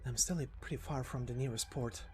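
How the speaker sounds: quiet, even inner monologue; fugitive thinking aloud. Acted. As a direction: think it through under your breath. Character muses alone on escape route.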